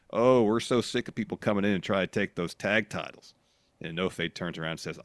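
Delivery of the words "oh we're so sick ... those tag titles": retold sarcastic complaint. Retelling the Good Brothers' complaint, sarcastically. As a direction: imitate a wrestler being sarcastic. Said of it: "really sarcastically".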